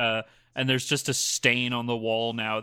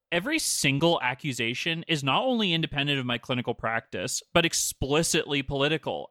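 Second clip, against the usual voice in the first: put-on mean girl voice. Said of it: "more of a mean girl voice for him".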